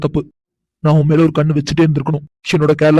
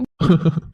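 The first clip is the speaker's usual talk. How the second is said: stifled laugh. Acted. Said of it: "என்ன நீங்க சிரிச்சுட்டே இருக்கீங்க?".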